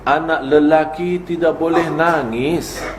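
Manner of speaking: slow, a hint of a stern parent; quoting a parent. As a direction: lay down the rule slowly like a father. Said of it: "kita berkata". (mengutip ayah yang tegas, pelan)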